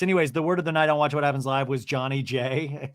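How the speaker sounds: ordinary talk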